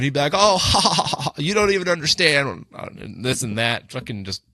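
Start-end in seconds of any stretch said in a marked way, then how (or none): 0.3-2.7 mock giggling drunk, pitched up; imitated giggle running into a dismissive line; Ken. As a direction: laugh it off like a tipsy fool. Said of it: "just giggling and being like".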